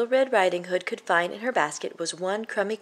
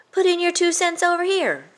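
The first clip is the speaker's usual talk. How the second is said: much higher and louder, sing-song call; 12 semitones higher, 5 dB louder than usual. Acted. Billy Bo calling Jack over, high and loud. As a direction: invite him over with a shout. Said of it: "called out Billy Bo".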